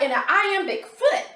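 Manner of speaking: a thrilled mom saying iambic; excited. Retold or imitated. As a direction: relish the new term. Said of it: "So I'm like".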